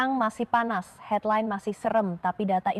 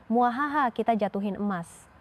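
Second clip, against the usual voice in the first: lightly hammed-up movie villain gloating; a hint of cackling film baddie; evil villain laugh. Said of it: "sambil ketawa".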